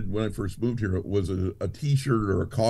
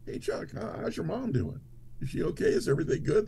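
imitating the madam; 10 semitones higher, 4 dB quieter than usual. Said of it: "the madam comes up and goes".

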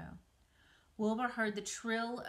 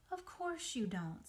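comforting; 4 semitones higher than usual. Acted. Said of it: "in a comforting voice".

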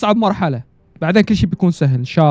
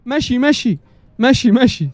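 urgent warning; 5 semitones higher, slower than usual. Real, not acted. Warns character urgently.

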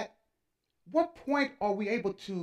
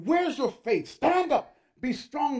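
stern exhortation; 5 semitones higher, 3 dB louder than usual. Acted. Voicing critics of crying believers.

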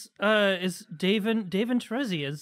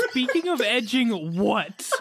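laughing; slower than usual. Real, not acted. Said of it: "repeats the segue laughing".

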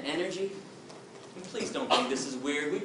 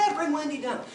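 stepdad; 11 semitones higher than usual. Retold or imitated.

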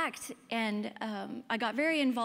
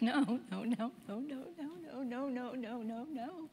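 mom crying no; 2 semitones higher, 4 dB quieter, slower than usual. Retold or imitated. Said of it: "She just cried".

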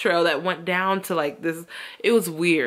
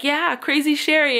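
quirky self-introduction; 7 semitones higher, 4 dB louder, slower than usual. Retold or imitated. Stranger introducing herself.

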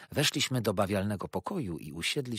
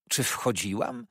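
pointed, raised question; emphatic; 3 semitones higher, 3 dB louder than usual. A narrator's reading. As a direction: rhetorical outrage. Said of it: "zawołała z emfazą".

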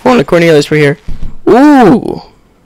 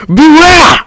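mock warning; 11 semitones higher than usual. Warning shouted at game enemy.

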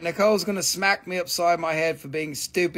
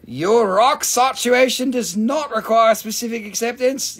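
mock British, pitched up; British accent; 4 semitones higher, 4 dB louder than usual. Seller jokes about a rock to viewers, mock British accent. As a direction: put on a formal British accent. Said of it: "That sounds very British".

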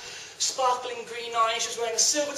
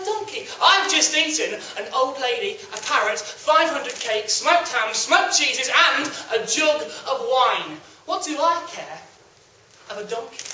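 arrogant cat. Acted. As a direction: sneer down at the donkey. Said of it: "he's so full of himself now".

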